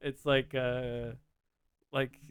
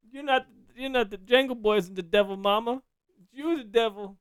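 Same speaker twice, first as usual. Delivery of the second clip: high, loud, indignant Southern character; Waterboy outburst; 8 semitones higher, 7 dB louder than usual. Acted. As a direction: protest loudly to mama in a Southern movie voice. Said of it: "Kathy Bates from The Water Boy".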